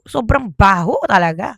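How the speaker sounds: ordinary delivery, nothing marked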